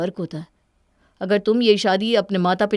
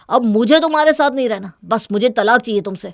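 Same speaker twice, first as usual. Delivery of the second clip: angry outburst; 3 semitones higher, 6 dB louder than usual. Acted. Wife demanding divorce in quarrel.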